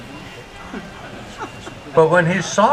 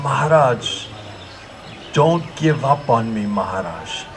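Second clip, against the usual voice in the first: low, hushed plea fading softer; imitating a confidential whisper, lower and trailing away; retold whisper; 7 semitones lower, 6 dB quieter than usual. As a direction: murmur it as if into someone's ear. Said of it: "I whisper in his ear".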